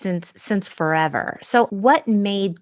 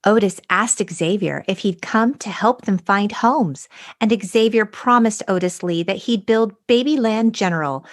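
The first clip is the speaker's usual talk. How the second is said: fairy-tale narration, a touch of wonder at the crystals; dramatic story reading. Shown as a demonstration. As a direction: read it like a storybook for kids. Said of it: "a dramatic abridged reading".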